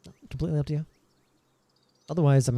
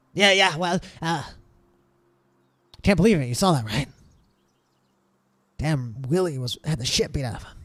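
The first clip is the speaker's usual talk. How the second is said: lightly voiced guard, chatting to his mates; a hint of a guard swapping rumours; guard character musing over bad news; gossiping town guard; 3 semitones higher than usual.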